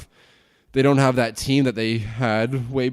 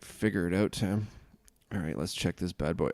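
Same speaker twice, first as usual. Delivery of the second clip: ordinary talk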